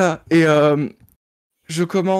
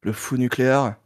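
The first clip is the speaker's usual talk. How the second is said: lightly voiced low detective; detective in role; 5 semitones lower than usual. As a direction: question it in a lower detective voice. Playing detective Malone in scene. (voix de détective, un peu plus grave)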